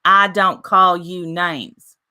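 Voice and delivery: very slow, word-by-word retold protest; slow, firm retelling of a denial; emphatic denial. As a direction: space out each word to make the point. Retelling her side of an argument.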